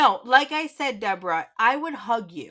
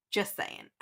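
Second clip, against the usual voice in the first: Just saying, whispered with no voice; whispered aside; 2 semitones lower, 11 dB quieter than usual. Real, not acted. Teasing John one more time, in a whisper. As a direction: breathe it as a sly aside. Repeats tag line, whispered.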